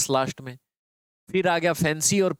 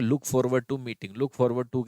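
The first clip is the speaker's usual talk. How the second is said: slow drill; 3 semitones lower, much slower than usual. Shown as a demonstration. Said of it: "याद कर लो".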